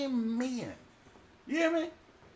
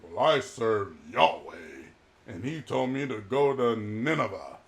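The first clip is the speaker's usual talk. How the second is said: Jonah confessing; 12 semitones lower than usual. Acted. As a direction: say it low and plainly. Jonah voiced.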